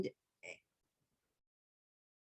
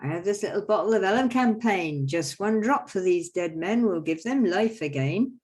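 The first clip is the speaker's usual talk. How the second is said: slightly louder showman doctor; quack doctor; 3 semitones higher, 5 dB louder than usual. Acted. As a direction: offer the potion like a showman. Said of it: "So I says".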